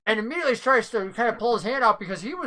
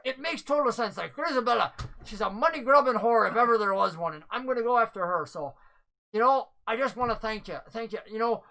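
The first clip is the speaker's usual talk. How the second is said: NPC voice; 3 semitones higher, faster than usual. Acted. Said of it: "He goes".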